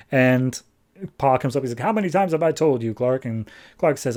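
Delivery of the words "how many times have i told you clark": quick, mildly exasperated dad; brisk mock scolding; retold fatherly scolding. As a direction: lightly imitate a father's routine telling-off. Father scolds son in normal memory.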